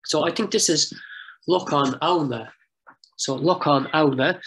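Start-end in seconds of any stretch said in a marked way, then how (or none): 1.5-4.4 Auna opened with an "ow" sound; standard form. Shown as a demonstration. Lecturer giving the full form of a field name, clearly pronounced. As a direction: Lochan Auna with a clear "ow" starting Auna. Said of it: "pronounced locally".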